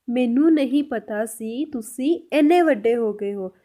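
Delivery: slow, measured dictation pace; slow repeat. Shown as a demonstration. Teacher repeating the Punjabi translation for learners, slowly. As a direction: draw the sentence out word by word.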